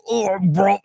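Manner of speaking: lightly hammed-up Cockney with teeth hanging out; mock a toothy Cockney, half done; Cockney impression. Wrestling host copies a rival's impression of Bruv, mock Cockney. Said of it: "he did the same goddamn impression".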